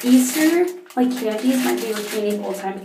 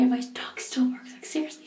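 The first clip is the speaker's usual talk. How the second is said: whisper; 2 semitones higher, 7 dB quieter than usual. Real, not acted. Aside about her barking dog.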